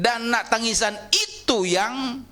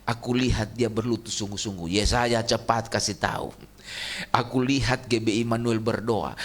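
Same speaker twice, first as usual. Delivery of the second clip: voice of God; 9 semitones lower than usual. Acted. God's voice, lower and calm.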